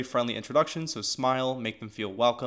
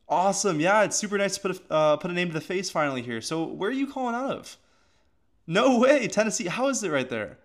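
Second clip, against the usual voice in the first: excited friendly greeting; 6 semitones higher than usual. Shown as a demonstration. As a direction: pump real energy into the hello. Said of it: "you wanna have that positive and excited tone".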